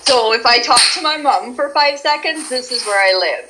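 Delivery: Canadian accent as spoken with mom; homey Canadian accent. Shown as a demonstration. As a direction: settle into your natural Canadian vowels. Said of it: "most intense Canadian as you talk".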